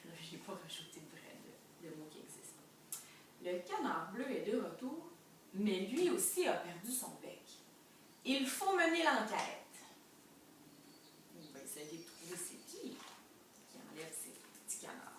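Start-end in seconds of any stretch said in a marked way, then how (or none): 3.4-9.6 dramatic story reading. A narrator's reading. Teacher reading that an investigation must begin, building dramatic storytelling. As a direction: build to a bold declaration for children. Reads picture book aloud.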